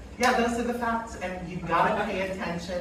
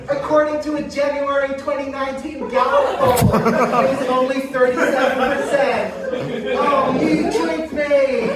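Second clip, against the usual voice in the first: dismissive dummy voice, raised pitch; Aunt Karen puppet voice; 4 semitones higher, 5 dB louder than usual. Acted. Dummy aunt brushing off the death rate, scoffing.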